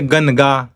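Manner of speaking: Ganga as gan-ga, with plain n; Ganga, n instead of ng; wrong dental nasal. Shown as a demonstration. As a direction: say Ganga with tongue-tip n. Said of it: "We don't say".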